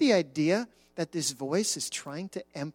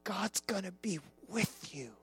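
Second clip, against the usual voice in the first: voice from the throne. Acted. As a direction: hush it like a secret promise. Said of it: "this voice is saying".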